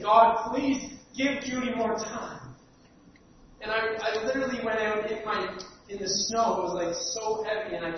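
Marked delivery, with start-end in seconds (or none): 0.0-2.5 a touch of angry pleading, slowed on please; angry prayer. Retold or imitated. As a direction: plead with God, half-angry and slow. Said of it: "I prayed angrily and I said".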